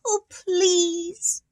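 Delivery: high pleading fish. Acted.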